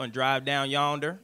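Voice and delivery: amateur Southern twang; Southern accent. Shown as a demonstration. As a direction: have a go at a country Southern accent. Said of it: "I sound like a redneck".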